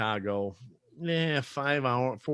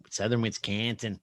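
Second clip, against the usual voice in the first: "Southern Wisconsin" in broad Wisconsin accent; thick southern Wisconsin accent; Wisconsin dialect; 3 dB quieter than usual. Shown as a demonstration. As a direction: lay on the Wisconsin vowels, flattened "Wis-CAN-sin". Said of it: "we have this weird dialect here".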